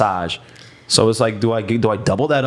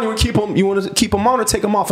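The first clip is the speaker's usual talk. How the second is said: lightly voiced masseuse, higher pitch; imitated masseuse; 6 semitones higher than usual. Masseuse asking client about undressing, lightly imitated high voice. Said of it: "she's like".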